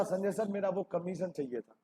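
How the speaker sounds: wheedling partner. Retold or imitated. Partner asking teacher for commission.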